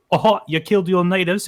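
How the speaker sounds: high-pitched British caricature; mock British accent. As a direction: accuse like a caricatured Brit. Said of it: "you'll see a Brit be like".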